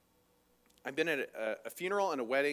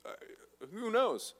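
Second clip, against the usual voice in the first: raised, pushed accusation; mock accusing; 4 semitones higher, 3 dB louder than usual. Cleopas accusing the stranger of missing the news, mock indignant. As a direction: needle him like he missed the joke. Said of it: "he's getting accused of".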